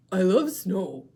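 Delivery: put-on a happy baby seal. Shown as a demonstration. Teacher voicing Baby Seal for the class. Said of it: "show you how to use voices".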